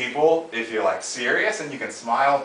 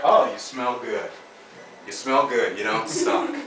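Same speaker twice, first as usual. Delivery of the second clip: steady falling, slower delivery; firm downstroke; 2 semitones lower, slower than usual. Shown as a demonstration. Coach models the greeting for Bailey, falling. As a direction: say it flat and sure. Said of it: "talk to Bailey like that".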